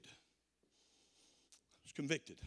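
hushed, slow repeat of I was convicted, almost to himself; quiet. Real, not acted. Preacher quietly confesses his conviction to the congregation, hushed. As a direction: let I was convicted sink in, soft and slow.

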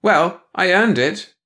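a smug alien relishing her own worth; smug self-satisfaction. Acted. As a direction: savor the credit she takes. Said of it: "immense satisfaction with self".

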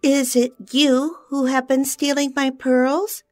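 high, loud furious fairy; cried in a rage. A narrator's reading. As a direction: rage at the little thief. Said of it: "cried the fairy in a rage".

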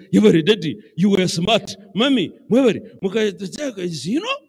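put-on children loudly praising their dad, building up; loud excited praise. Preacher voicing grateful children, loud and excited. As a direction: voice it like grateful grown kids gushing.

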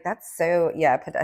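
put-on bored valley girl drawl. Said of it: "I sound like a total valley girl".

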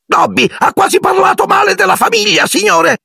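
extremely high shrieking elf; sobbing house-elf outcry. A narrator's reading. House-elf overwhelmed by a wizard's courtesy, shrieking. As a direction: burst out in tearful awe. Dobby confesses.

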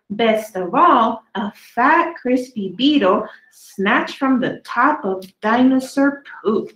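lively storybook read, slowed on the big words; reading to children. A narrator's reading. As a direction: read each dinosaur poem to the kids with relish. Reading dinosaur poems to children.

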